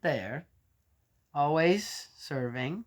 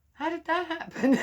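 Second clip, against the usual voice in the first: hammed-up, much higher and louder; mock bewilderment; 13 semitones higher, 4 dB louder than usual. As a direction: play up the baffled outcry. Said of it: "I just sometimes go".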